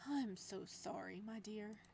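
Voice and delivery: slow, gentle apology to his captive. Acted. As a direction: soften it as much as you can. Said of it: "trying to sound as gentle as possible".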